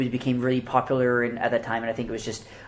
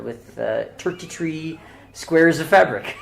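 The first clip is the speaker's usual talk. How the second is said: put-on Irish accent; 3 semitones higher, slower than usual. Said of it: "Do it in an Irish accent".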